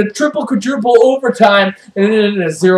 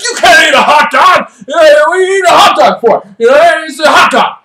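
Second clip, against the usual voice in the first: higher, incredulous referee rant; mock scolding; 7 semitones higher, 5 dB louder than usual. Ref scolding players for snacking mid-game, mock scolding. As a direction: tell them off loudly, hammed up.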